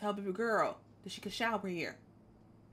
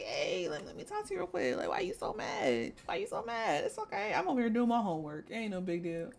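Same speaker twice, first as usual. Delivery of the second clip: sweet-talking Tyreek. Retold or imitated. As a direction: coax her out of being mad, pitched up. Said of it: "We just had to talk to Baby Mama".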